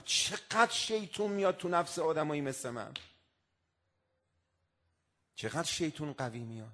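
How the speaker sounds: hushed inner voice, fading away; quiet self-reproach. Retold or imitated. Preacher recalling his own shame, softly to himself. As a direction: murmur to yourself in shame. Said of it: "به خودم گفتم".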